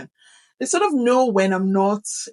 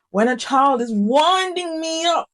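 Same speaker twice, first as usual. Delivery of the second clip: worked-up exasperation; 6 semitones higher than usual. Shown as a demonstration. Teacher describing a child winding her up, exasperated. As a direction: let the wind-up climb in pitch.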